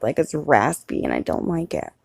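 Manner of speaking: normal talking voice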